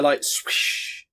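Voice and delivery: unvoiced swish sound; whispered swish. Shown as a demonstration. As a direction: breathe out a swishy whoosh. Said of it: "you just want me to".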